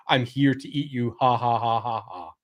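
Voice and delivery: lightly voiced comedy ogre with fake laugh; a hint of a hammy ogre, ha-ha-ing at the end; comic ogre. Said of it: "the ogres often fulfill that role".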